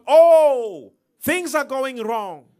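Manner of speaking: hammed-up lament, high on the opening Oh; mock complaining. Preacher voices everybody complaining as things go wrong, mock complaining. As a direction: imitate people wailing over their losses.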